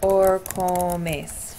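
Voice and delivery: vivís spelled out slowly, rising at the end; slow demo. Shown as a demonstration. Teacher modelling the ending for students, slowly. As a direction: draw out vivís for the class. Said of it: "let's plug 'em in here".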